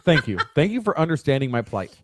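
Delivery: dry sarcastic thanks; mock gratitude with a little laugh. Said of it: "that was sarcasm".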